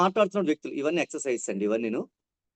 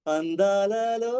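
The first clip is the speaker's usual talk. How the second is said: wonder; 2 semitones higher, much slower than usual. Shown as a demonstration. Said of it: "అద్భుతం".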